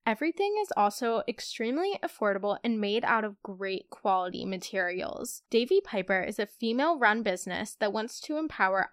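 upbeat, polished ad-read voice; sponsor ad read. Acted. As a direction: sell the brand like a host-read spot.

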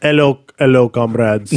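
playful put-on Russian accent. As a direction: greet them in a mock Russian accent. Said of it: "That was my Russian accent".

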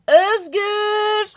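calling out. Acted. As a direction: call out across the street. Calling out from the window.

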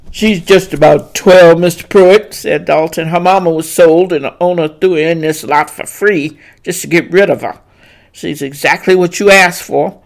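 eager driver. Acted. Driver reports to the master.

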